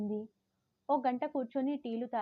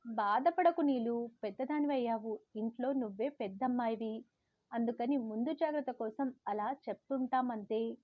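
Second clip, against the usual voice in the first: soothing mother. Retold or imitated. Mother coaxing her upset daughter, gently. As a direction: soften it, comfort her. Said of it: "అమ్మ బుజ్జగింపులు".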